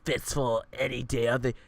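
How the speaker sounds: loud, sassy bragging; sassy bear voice. Acted. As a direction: brag with camp flair. The bear brags on.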